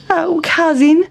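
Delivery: high little mouse voice listing grievances; fussy, unhappy mouse, slowing at the end; complaining Town Mouse. A narrator's reading. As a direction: grumble in a high put-on mouse voice.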